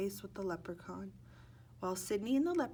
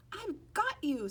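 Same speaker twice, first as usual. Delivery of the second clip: higher, louder I've got you shout; triumphant yell; 9 semitones higher, 4 dB louder, slower than usual. Acted. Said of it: "Sidney yelled".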